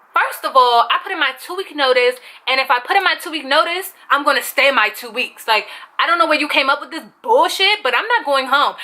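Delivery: retold indignant rant; going off. Employee refusing Cha-Cha's dismissal, retold going off. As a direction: argue back with quick indignation. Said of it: "I was going off like that".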